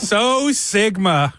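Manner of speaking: slow, drawn-out mock slang; ironic zoomer. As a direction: savor the slang word slowly. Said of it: "talk like a Gen Z person".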